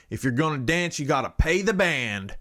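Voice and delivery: lightly put-on Southern accent, lampooning rural whites; hint of a Southern accent; quasi-Southern accent. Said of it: "I had to go into a Southern".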